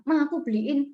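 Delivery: retold child's mild pleading whine; whining child. Child begging mother for a dog, mild whining. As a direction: lightly imitate a kid begging a parent. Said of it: "dia ngerengek nih sama orang tuanya".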